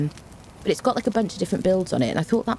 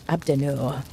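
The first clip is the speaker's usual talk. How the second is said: outrageous French accent; 3 semitones lower than usual. Shown as a demonstration. Streamer greeting a viewer in a mock French accent. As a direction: roll Abdenor out like a hammy Frenchman. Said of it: "say your name in an outrageous French accent".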